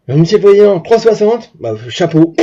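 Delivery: loud, emphatic address; imitated impressed officer. Officer congratulates the president on his speed, loud imitated admiration.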